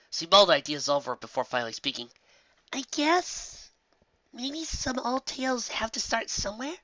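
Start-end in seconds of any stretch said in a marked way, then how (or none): 2.7-6.8 put-on high, puzzled young unicorn; young Twilight voice. A narrator's reading. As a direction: read it with curious surprise. Twilight thinks aloud.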